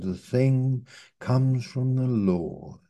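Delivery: hushed, slow answer from Laban; whispered reply. Acted. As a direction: breathe it out like a reverent secret.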